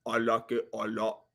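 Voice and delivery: low aside. Real, not acted.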